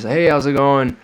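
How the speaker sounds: imitating the very nice motel lady saying hello; nice clerk greeting. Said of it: "She was very nice".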